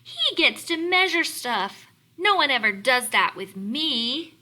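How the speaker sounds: reading Fork's line. Acted. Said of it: "said Fork".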